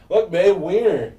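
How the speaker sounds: loud, high, slow announcement; retold calling out. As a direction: point it out to your partner, drawn out. Retells calling out to partner.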